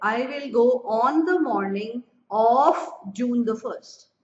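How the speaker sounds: very slow, word-by-word example sentence; slow teaching read. Shown as a demonstration. Teacher slowly reading a sentence students must mark. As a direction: read the key line slowly so students note it. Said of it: "star बना लो इस line पे".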